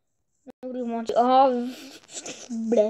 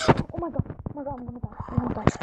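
panicking gamer; much faster than usual. Real, not acted. Nearly dying in game.

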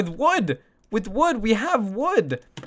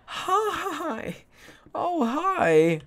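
put-on baby talk; 10 semitones higher, much slower than usual. Greeting new pet in game.

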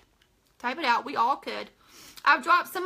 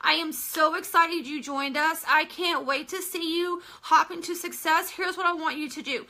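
mock upline; 2 semitones higher than usual. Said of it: "We have leaders out there going".

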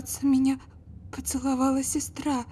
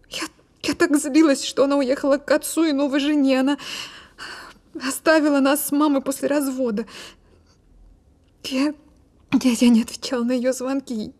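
louder, pained rush of guilt; distressed; 2 semitones higher, 3 dB louder than usual. Acted. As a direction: let the remorse spill out. Guilty outburst about her sister.

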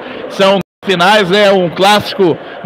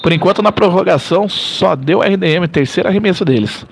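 live play-by-play. Acted. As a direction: call the action as it happens. Play-by-play continues.

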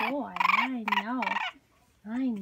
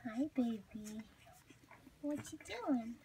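whisper; 8 dB quieter than usual. Real, not acted. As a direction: breathe it gently to the infant. Mother whispering to baby.

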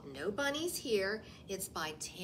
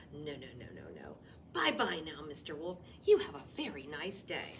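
low, hurried denials; fibbing rabbit; 4 semitones lower, faster than usual. Acted. Rabbit nervously denies the bunny to the wolf. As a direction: brush the wolf off breezily.

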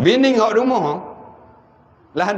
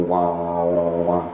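imitated wailing; 10 semitones lower than usual. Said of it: "Teriak gitu nah".

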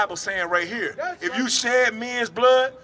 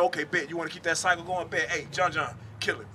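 casual voice of God; 3 semitones lower, 5 dB quieter than usual. Acted. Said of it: "So God said".

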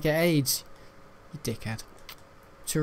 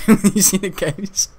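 cracking up on the line; laughing repeat, a bit louder; 5 semitones higher, 3 dB louder than usual. Shown as a demonstration. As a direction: repeat the punchline through laughter.

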